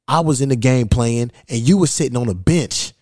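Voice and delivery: imitated tough old-timer's boast, lightly acted; hard taunt. Retelling an old man's jab at a seated traveler, mildly hard. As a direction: put a touch of hardness on the taunt. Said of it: "some hard type shit".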